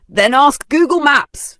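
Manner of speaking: loud, high snapping bark; dismissive bark. A narrator's reading. Vanessa barking at the lost old woman. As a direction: brush her off harshly. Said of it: "Vanessa barked".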